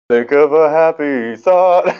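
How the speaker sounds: slow, high, drawn-out storybook hero; Peter Pan. Acted. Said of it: "Peter Pan, like".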